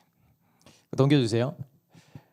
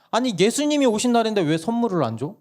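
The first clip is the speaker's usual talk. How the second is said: put-on child arguing; 10 semitones higher than usual. Child argues with mom.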